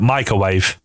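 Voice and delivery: lightly Australian "microwave", as "mike-uh-wave"; a hint of Australian, no R in "microwave"; Australian pronunciation. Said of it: "That's kinda how Australians say it".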